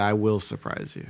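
"will" pressed apart from "I"; stress on will. Retold or imitated. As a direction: land on "will", not a contraction. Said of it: "You said".

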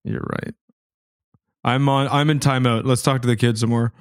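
normal talking voice

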